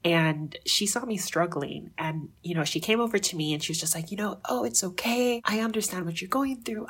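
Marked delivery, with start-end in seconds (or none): 4.5-6.9 reassuring. Retold or imitated. Girl comforting a struggling learner.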